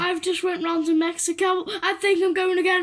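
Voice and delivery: hiccuping through the sentence; hiccups. Acted. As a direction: voice jumping with hiccups. Hiccuping boy tells his friend.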